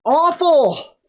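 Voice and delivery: high, loud groan of the word. Real, not acted. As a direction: moan it out in misery. Reacting to bad night.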